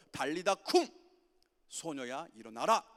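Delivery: put-on loud call to a dead girl to rise; commanding call. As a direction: cry it out to raise her. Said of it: "이렇게 말씀하세요". (소녀에게 외치는 큰 명령)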